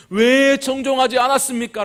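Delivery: high, loud accusing question; acted rebuke. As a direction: scold as the prophet, leaning on 왜. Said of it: "질책하고 있는데".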